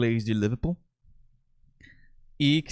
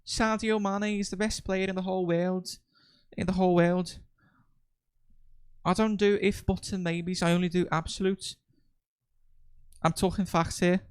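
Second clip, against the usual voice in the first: imitating a Liverpool boy's Scouse accent, higher; a young Scouse football fan, higher pitched; 7 semitones higher than usual. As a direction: Liverpool kid raving in a strong Scouse accent. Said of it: "o vídeo daquele menino falando".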